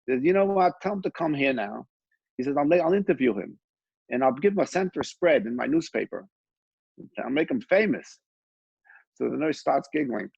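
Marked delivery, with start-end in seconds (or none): 0.2-8.2 boastful tycoon. Retold or imitated. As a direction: puff up like a big shot. Arrogant publisher offering fame.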